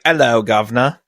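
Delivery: mock British accent. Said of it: "Like an accent".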